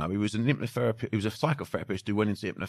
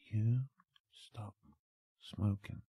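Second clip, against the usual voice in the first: much softer, slow hypnotic murmur; soft embedded command; 9 dB quieter, much slower than usual. Shown as a demonstration. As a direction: slip the command in under your breath. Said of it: "on the whisper".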